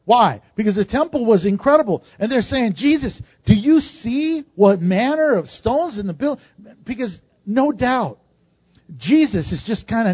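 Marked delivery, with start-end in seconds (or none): 2.8-6.4 higher, amazed disciple's voice; awestruck disciples. Retold or imitated. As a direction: imitate disciples blown away by the temple. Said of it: "They're freaking out".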